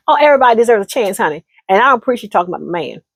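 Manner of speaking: fast, dismissive retort; defensive girlfriend. Acted. Girlfriend defending her man, fast and sassy. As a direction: brush her off in a hurry. Girl snaps back quickly.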